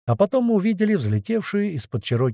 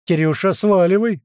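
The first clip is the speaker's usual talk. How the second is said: high, loud warning shout; loud yell; 6 semitones higher, 5 dB louder than usual. A narrator's reading. Fighter warning the parrot away, yelling loudly. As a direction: holler for the bird to flee. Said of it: "громко заорал кто-то из бойцов".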